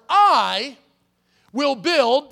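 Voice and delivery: "I" and "will build" punched loud, each word set apart; emphasized words. Shown as a demonstration. Pastor stressing each word of the verse to the congregation, loud and spaced. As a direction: hit "I" hard, pause, then "will build". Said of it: "I'm gonna emphasize a word here".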